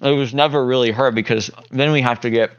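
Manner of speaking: talking with mouth full; eating while talking. Real, not acted. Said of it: "sorry, I'm eating a ho-ho".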